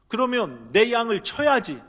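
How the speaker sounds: a strong call to get back to work; firm urging Jesus. Acted.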